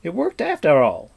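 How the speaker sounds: loud, falling tune on "worked"; triumphant shout, "worked" landing firmly down; astonished exclamation. Acted. Bard cheers the riders' retreat, loud falling exclamation. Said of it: "cried the astonished Fflewddur".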